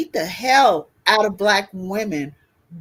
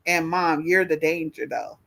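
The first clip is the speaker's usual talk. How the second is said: daughter's teasing quote; 5 semitones lower, 5 dB quieter than usual. Retold or imitated. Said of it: "my daughter will tell you".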